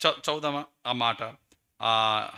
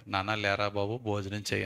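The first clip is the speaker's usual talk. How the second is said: gentle father; 4 semitones lower than usual. Acted. God gently waking Elijah.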